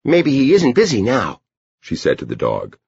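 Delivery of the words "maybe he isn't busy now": put-on high-pitched child character; much higher girlish voice; Edie. A narrator's reading. Girl wonders aloud to the dog, high child voice.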